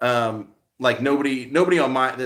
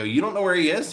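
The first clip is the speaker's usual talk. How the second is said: higher-pitched questioning repeat; incredulous echo; 4 semitones higher than usual. Retold or imitated. Vlogger to cemetery office man, retold incredulous question. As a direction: echo it back as a disbelieving question. Vlogger echoes answer in disbelief.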